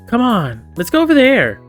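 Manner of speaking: high, eager call to come along; high, pushy invitation; urging kid. Acted. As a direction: pull the others along with your voice. Voices Lizzie urging the kids along.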